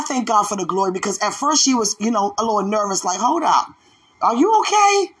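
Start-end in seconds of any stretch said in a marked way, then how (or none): 3.2-5.1 worried mother. Retold or imitated. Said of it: "my mother was like".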